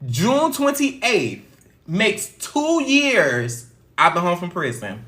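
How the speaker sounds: emotional. Real, not acted. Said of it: "I told you I was just getting emotional".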